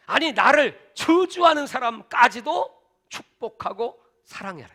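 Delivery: preacher drives home blessing enemies; slow emphatic preaching. Acted. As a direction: lay each word down slowly. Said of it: "preaching emphasis".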